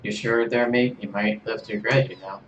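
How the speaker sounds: a lightly put-on accent that lands British; attempted Australian accent, sounds British. Kit warning Serge after he refuses, in a British-sounding accent. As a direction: warn him in a wobbly Aussie accent. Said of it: "you're too British for me".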